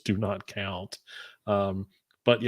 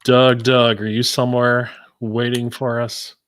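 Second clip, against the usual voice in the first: loud call into the distance; 8 dB louder than usual. Real, not acted. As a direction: call out for a missing friend. Calling out for absent Doug.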